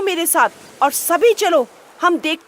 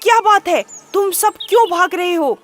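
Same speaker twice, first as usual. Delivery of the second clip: loud, high demanding roar; startled lion; 6 semitones higher, 5 dB louder, faster than usual. A narrator's reading. Lion stepping out of his cave, loud demand. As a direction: burst out of the cave and demand answers. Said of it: "शेर हड़बड़ाकर ... बोला".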